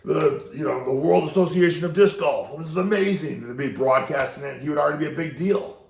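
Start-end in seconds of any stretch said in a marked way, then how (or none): 0.0-3.4 excited fans. Retold or imitated. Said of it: "They're like".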